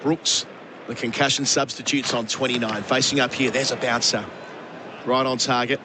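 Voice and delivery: lightly lifted cricket commentary; live play-by-play. Real, not acted. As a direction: call the delivery as it happens.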